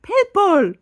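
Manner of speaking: high loud squeal of delight; mock shriek spotting a pit bull; excited squeal. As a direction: shriek it like a thrilled child. Childlike squeal at dog.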